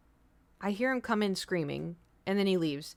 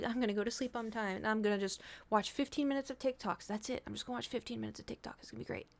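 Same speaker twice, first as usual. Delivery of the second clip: mock promise; 2 semitones higher, 8 dB quieter than usual. Retold promise to herself.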